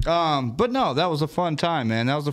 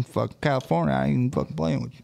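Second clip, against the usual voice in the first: lightly voiced rambling country buddy; good-old-boy racing yarn-spinner; 2 semitones higher than usual. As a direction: keep rambling like a backwoods racing fan.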